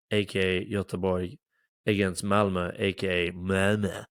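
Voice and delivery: a mock Swedish accent on the city names. Shown as a demonstration. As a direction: say Göteborg and Malmö the Swedish way, half-joking. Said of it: "That was my best sconce accent".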